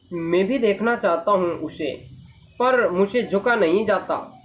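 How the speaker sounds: measured, understated character reading; pole's lament. Acted. Reads pole's line, later paraphrased. (खंबे का संवाद ठहरकर पढ़ते हुए)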